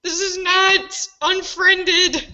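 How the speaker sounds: high, slow frightened plea; half-laughing real fright; scared. Real, not acted. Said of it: "You're scaring me!".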